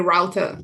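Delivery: "router" mockingly said ROW-ter; "router" with an American OW, in disbelief; American pronunciation. Shown as a demonstration. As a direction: say "router" to rhyme with doubter. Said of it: "instead of a router, it'd be like".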